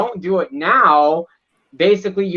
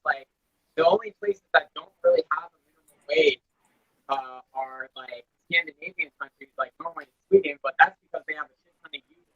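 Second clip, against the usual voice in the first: faint voice through a tin can; quiet and choppy, breaking up; quiet, tinny audio; 5 dB quieter than usual. Real, not acted. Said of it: "but you're very quiet".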